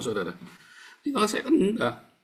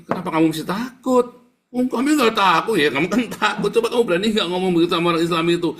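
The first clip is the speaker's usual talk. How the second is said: raised, higher-pitched confrontational voice; loud challenge; 4 semitones higher, 7 dB louder than usual. Acted. Preacher challenges believers who deny being afraid, loud confrontation. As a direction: throw it out loudly, as a dare.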